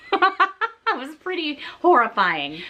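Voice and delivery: slow, laugh-broken admission; amused at your own horror. Real, not acted. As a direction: chuckle through the confession. Laughs while summing up her ordeal.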